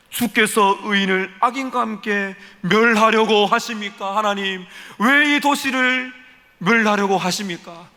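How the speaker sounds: slow, earnest plea to God, stretching the words; Abraham pressing God to spare the city, slow and earnest; pleading Abraham. Acted. Abraham pleading with God for the city, slow earnest appeal. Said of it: "아브라함이 이렇게 기도합니다".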